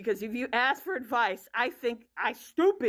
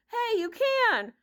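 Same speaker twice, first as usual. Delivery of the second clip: sing-song tease; 9 semitones higher, slower than usual. Retold or imitated. Light teasing reply retold.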